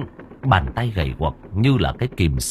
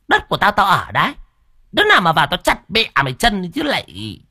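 much higher, louder defiant shouting; shrill yelling back; 9 semitones higher, 4 dB louder than usual. Acted. Cúc yells back at her sister-in-law, defiant angry shouting. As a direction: shout her down, claiming the land.

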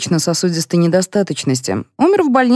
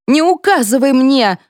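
put-on worked-up outburst at the old lady; furious snap; 7 semitones higher than usual. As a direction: lose it and snap back. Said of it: "вошла в раж Зинкина".

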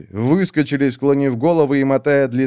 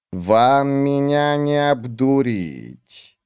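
cold witch; 2 semitones higher, much slower than usual. Acted. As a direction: drag each word out, icy and dismissive. Olar Ethil slow.

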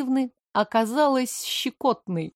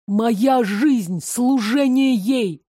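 fanatic devotion; 3 dB louder, much slower than usual. Acted. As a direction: proclaim it like a zealot. Drugged boy's devotion.

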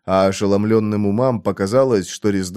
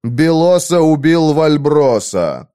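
shouting; 5 semitones higher, 5 dB louder, slower than usual. A narrator's reading. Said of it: "закричал Конан".

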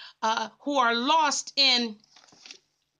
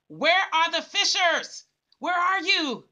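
the same question thrown out with more push; a touch more fervent preacher's call; rising urgent call; 4 semitones higher than usual. Acted. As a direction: press the question harder, as a summons.

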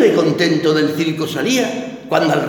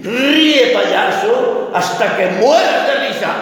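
stern order; 2 semitones higher, slower than usual. Acted. Ringmaster orders clown.

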